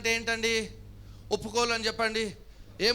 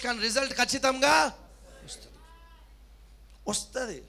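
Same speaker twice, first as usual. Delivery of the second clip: raised, driving preacher's delivery; insistent preaching; 2 semitones higher than usual. Real, not acted. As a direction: urge the congregation with conviction. (పట్టుదలగా, ఉత్సాహంగా చేసే ప్రసంగం)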